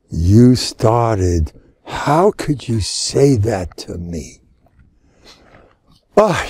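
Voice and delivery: slow, wounded protest in play; mock offended. Imitating a touchy person who can't deal with this talk, mock offended. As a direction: draw it out like someone mock-hurt.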